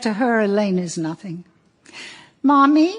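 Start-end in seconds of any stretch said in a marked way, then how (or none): 2.4-2.9 put-on high, plaintive call from a little boy; a homesick kid calling Mommy; small child's voice. A narrator's reading. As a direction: reader voicing a young son, high and pleading. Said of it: "Sammy says".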